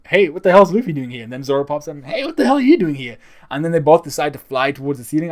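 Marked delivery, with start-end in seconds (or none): 0.1-1.2 higher, louder imitation of a shocked fan; hammed-up disbelief at Luffy showing up; mock outraged yell. Fan imagines Queen's reaction. 2.0-3.2 much higher, louder cartoon yelp of disbelief; a hammed-up, squeaky shriek at Zoro; squeaky mock outrage. Imagined Queen reacting to Zoro.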